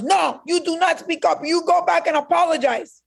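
high, firm mother's voice; stern mother. Retold or imitated. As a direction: voice the mother laying down the law. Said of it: "And my mother goes".

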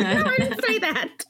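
high, laughing correction; laughing denial. Retold or imitated. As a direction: deny it while laughing. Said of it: "And she's like".

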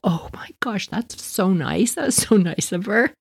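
put-on hushed awe of children; imitating touched kids. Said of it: "they're all".

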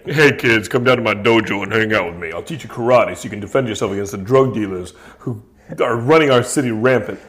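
lightly voiced celebrity karate instructor; Van Damme. Washed-up actor inviting kids to his dojo, lightly put-on voice. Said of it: "basically my Van Damme impersonation".

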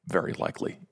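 conspiratorial whispered aside; whispering. Real, not acted. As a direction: whisper it like a secret. Whispered aside about the story.

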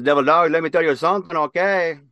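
high, fast, loud drill-sergeant bark; Gunny Ortega impression. Imitating his old gunnery sergeant for the interviewer, barking high and fast. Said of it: "who talked like this".

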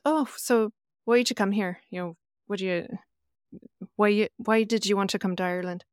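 a light Irish lilt for the factory worker; lightly imitating an Irish worker's accent. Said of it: "Well done on the accent".

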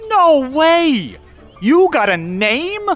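high, loud burst of delight; no way, overjoyed; excited shout. Acted. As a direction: cry out, thrilled. Man thrilled Mateo has a name.

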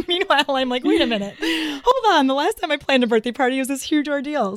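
laughing disbelief. Retold or imitated. Laughing at her own fuss.

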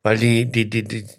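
tipsy, words slurring together. Real, not acted. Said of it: "Lallst du jetzt, oder was?".

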